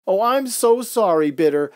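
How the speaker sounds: high, loud sarcastic-edged snap; snapped retort. A narrator's reading. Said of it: "Veggie snapped".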